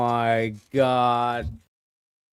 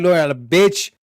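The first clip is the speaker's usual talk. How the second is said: mock angry yell; 3 semitones higher, 5 dB louder than usual. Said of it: "He's like".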